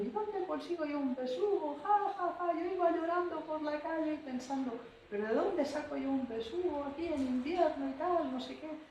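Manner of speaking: put-on high, loud, laughing voice of a cheerful old lady; laughing retelling. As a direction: laugh all the way through a sad memory. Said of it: "Y entonces ella nos cuenta, venga a reír".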